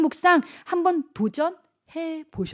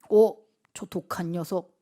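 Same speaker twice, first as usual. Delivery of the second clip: imitated friends; 5 semitones lower than usual. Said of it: "그들이 너희로 하여금".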